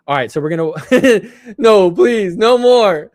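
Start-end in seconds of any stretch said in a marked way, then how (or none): 1.5-3.1 louder, laughing begging to stop; laughing plea. Real, not acted. Streamer begs chat to stop the bad trailers, laughing. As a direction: beg for mercy through a laugh.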